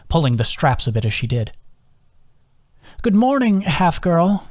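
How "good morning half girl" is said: high, lilting hag greeting; hag's voice. A narrator's reading. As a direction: greet the captive as a hag, pitched well up. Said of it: "came the hag's voice".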